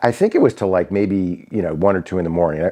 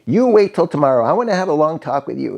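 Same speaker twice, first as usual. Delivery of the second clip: imitating angry boss; 9 semitones higher than usual. Boss scolds him over the payphone, mock angry yell. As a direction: play the boss threatening him down the line. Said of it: "she started yelling at me".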